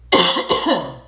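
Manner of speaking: loud dry cough; coughing fit. Real, not acted. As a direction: cough again, throat irritated. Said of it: "I am not sick".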